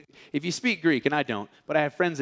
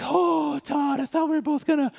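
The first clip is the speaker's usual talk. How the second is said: surprised; 11 semitones higher than usual. Retold or imitated. Realizes friend stayed behind.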